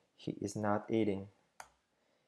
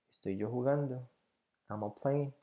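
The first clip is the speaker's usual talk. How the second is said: question tune; 3 semitones higher, 3 dB louder than usual. Shown as a demonstration. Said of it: "Entonces pregunto yo".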